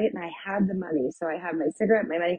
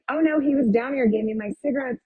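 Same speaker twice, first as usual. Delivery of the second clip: mildly insistent retold protest, pitched higher; 6 semitones higher, faster than usual. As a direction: lightly act out contradicting disbelieving rescuers. Retelling her protest to disbelieving rescuers.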